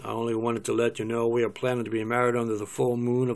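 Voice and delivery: quick cowboy-actor impersonation; lightly voiced Western film hero; John Wayne. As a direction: put on a movie cowboy voice. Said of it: "Paul is John Wayne".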